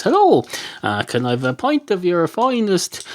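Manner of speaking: a hint of a chirpy bar customer; zebra ordering a drink. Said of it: "goes up to the lion and says".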